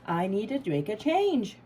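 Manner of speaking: firm resolve. Retold or imitated. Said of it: "you go".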